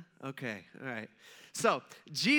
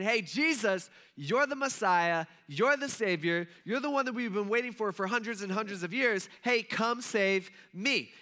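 mock shout; 3 semitones higher, 3 dB louder than usual. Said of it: "begins shouting over and over".

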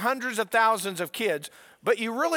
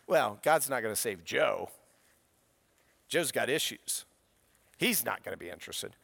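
our doubting thoughts; 9 semitones lower, 4 dB quieter than usual. Retold or imitated. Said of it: "And then we're thinking".

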